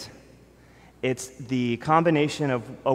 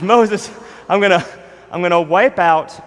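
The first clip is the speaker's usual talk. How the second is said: louder and higher, a hint of divine wrath; lightly voiced furious God threatening; angry God; 3 semitones higher, 7 dB louder than usual. God threatening Moses over the golden calf, mildly wrathful. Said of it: "He says".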